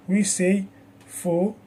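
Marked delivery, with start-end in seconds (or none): 1.1-1.5 PHOtograph broken into three syllables, stress on pho; teacher's spaced-out pho-to-graph, leaning on pho; stress on first syllable. Shown as a demonstration. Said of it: "The stress is on the first syllable".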